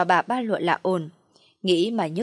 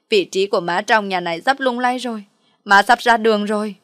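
loud, whiny lament; loud wailing complaint; 5 dB louder than usual. Acted. Mother wails to daughter about the pregnant rival, loud and whiny. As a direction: wail out the grievances like a child. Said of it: "khóc to hơn".

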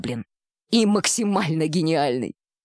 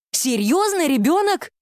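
much higher, shocked yelling question; 9 semitones higher than usual. Acted. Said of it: "Поймав себя на оре".

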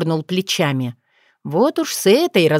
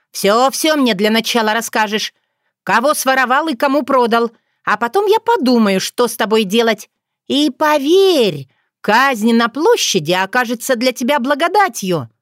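menacing Yaga; 4 semitones higher than usual. Acted. Yaga threatening the captive Bogdan, menacing. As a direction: lean in and threaten like an old witch.

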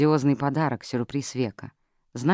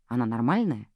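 usual speaking voice

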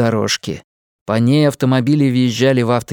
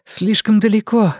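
hoarse rasp; 8 semitones higher than usual. A narrator's reading. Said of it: "могла только сипеть".

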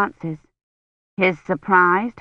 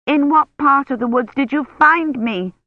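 higher and louder, urgent; voice rising; 8 semitones higher, 4 dB louder than usual. A narrator's reading. Kivrin desperately pressing the knight, voice rising. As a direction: push up in desperation. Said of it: "her voice rising".

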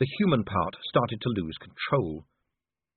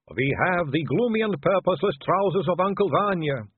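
higher, gloomy ladylike voice; doubtful lady; 7 semitones higher, 3 dB louder than usual. A narrator's reading. Sister offers Vimes trousers, doubtful and higher. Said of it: "said one doubtfully".

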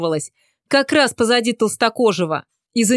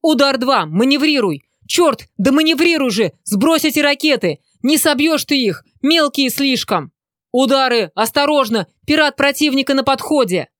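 panicked radio yelling; 3 semitones higher than usual. Acted. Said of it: "слушал вопли пилотов".

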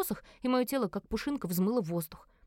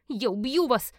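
mild, raised cry of fury; pained scream; 2 semitones higher, 4 dB louder, slower than usual. Acted. Tortured heroine threatens her captors, restrained scream. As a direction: cry out through growing pain. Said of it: "закричала".

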